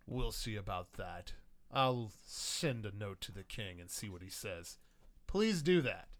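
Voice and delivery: measured, slightly low voice of authority; lightly voiced old officer standing his ground; Stephen Hambone Delgado. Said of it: "you hear old Stephen Hambone Delgado's voice go".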